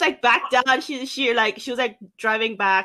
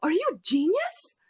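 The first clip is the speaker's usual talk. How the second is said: hushed, whispered amazement at a puppy; awed whisper; 6 semitones higher, 6 dB quieter than usual. Retold or imitated. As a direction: whisper it as if astonished.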